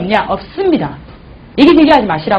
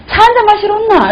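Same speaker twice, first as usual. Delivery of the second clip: imitating her invite; 6 semitones higher than usual. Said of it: "이러는 거예요".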